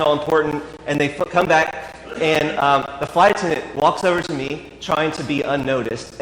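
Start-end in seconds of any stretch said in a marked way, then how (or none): none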